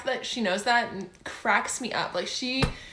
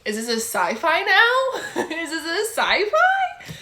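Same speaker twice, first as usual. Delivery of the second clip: higher, louder and slow, laughing throughout; laughing disbelief; 8 semitones higher, 6 dB louder, slower than usual. Real, not acted. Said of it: "laughing disbelief at genre shift".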